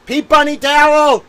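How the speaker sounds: high, loud mock-heroic call; triumphant hammed-up call; grand summons. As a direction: announce the towel like a champion. Summons the comfort towel.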